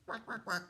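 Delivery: duck quacking. Acted. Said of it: "said the duck".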